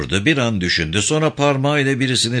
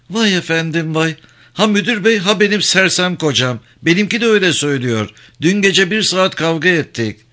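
higher-pitched, put-out woman's voice; aggrieved wife, voice lifted high; indignant wife; 6 semitones higher than usual. Acted. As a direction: complain about the men in a raised pitch.

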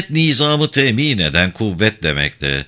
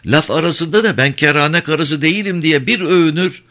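lightly voiced brazen woman, pitched higher; outspoken Ayşe; 5 semitones higher than usual. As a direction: lift the voice for her frank tale. Narrator voices talkative Ayşe. (hafifçe tizleştirilmiş, pervasız Ayşe sesi)

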